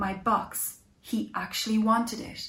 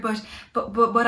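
stammering on but, but, then louder on I can't afford it; stuttered; 5 dB louder than usual. Acted. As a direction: trip over the words, flustered. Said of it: "I stuttered".

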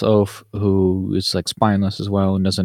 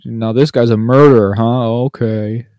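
louder, slow sneering put-down; mocking mother; 3 semitones higher, 6 dB louder, slower than usual. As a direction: drag it out to belittle her. Voicing the dismissive mother.

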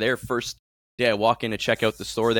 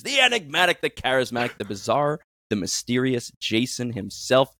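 building wrestling ring announcer, slowing at the end; mild ring announcer; announcer intro. Acted. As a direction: hype the guest like a ring entrance.

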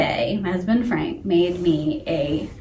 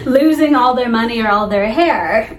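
amused, laughing; 3 semitones higher, 6 dB louder than usual. Real, not acted. Joking about friend's imagined misfortunes.

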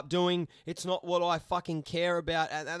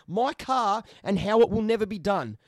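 quoting the comment louder with scorn; mock reading; 3 semitones higher, 6 dB louder than usual. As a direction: sneer out the silly comment. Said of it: "a comment that says".

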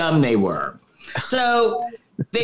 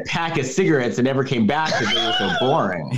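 rushed, laughing joke; faster than usual. Real, not acted. Joking about the missing dad, laughing fast. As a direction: rattle it off while laughing.

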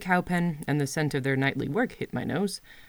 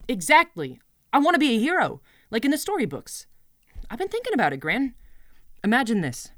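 higher, eager dreaming aloud; excited; 5 semitones higher, 3 dB louder than usual. Acted. Girl excitedly telling her goat about becoming a hero. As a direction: bubble over with the dream.

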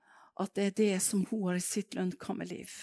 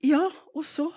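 impatient prompt; 8 semitones higher, 5 dB louder than usual. Retold or imitated. Impatient reply to friend.

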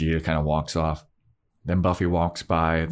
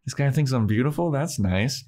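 higher, quick mock delight; flattered; 6 semitones higher than usual. Buffy overhearing a guy's admiring thought, playfully flattered. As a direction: play someone pleasantly flattered.

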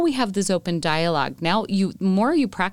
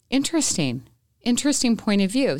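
calm reply; 4 semitones higher than usual. Retold or imitated. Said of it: "breathed in rather than barking".

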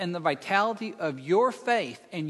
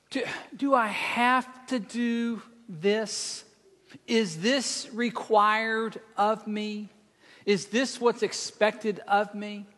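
whiny voice; slower than usual. Retold or imitated. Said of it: "in their most whiny voice".

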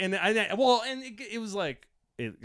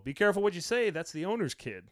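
audience warning; 6 semitones higher, 4 dB louder than usual. Retold or imitated. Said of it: "I hear somebody go".

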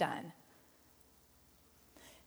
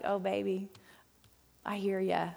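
soft, lightly acted comforting voice; gently soothe, a touch lower and softer; tender reassurance; 3 semitones lower, 5 dB quieter than usual. God listening to a muddled prayer, tender and reassuring.

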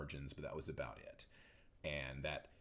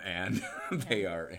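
nervous laugh; 4 dB louder, slower than usual. Real, not acted. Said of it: "I'm still laughing because it's a nervous laugh".

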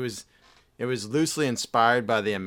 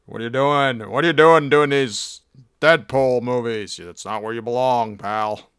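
mock scolding; 4 dB louder than usual. Character scolding Damon.

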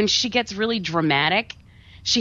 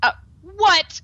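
mock disbelief; 13 semitones higher, 4 dB louder than usual. Real, not acted. Reacting to absurd plot twist.

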